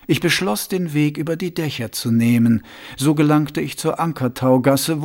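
sly, confiding ruler asking a pointed question; Vetinari voice. Acted.

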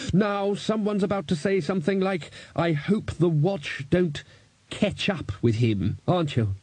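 head off the silly jokes wearily; drawn-out, fed-up voice of authority; exasperated senior wizard. A narrator's reading. Ridcully speaks in the story.

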